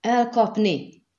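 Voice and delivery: high, slow, loud cry; screeched order. A narrator's reading. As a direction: screech it out as a drawn-out command. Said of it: "rikoltotta Skellen".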